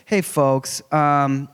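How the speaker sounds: lightly voiced casual pilot on the intercom; a hint of an airline captain's PA voice; pilot announcement. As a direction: play a laid-back pilot breaking bad news, the end rushed fast. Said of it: "pilot ever got on the microphone".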